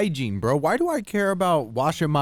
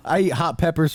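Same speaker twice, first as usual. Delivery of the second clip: laughing tough-guy taunt, higher; 7 semitones higher, 4 dB louder than usual. Real, not acted. Mock tough reply about mace.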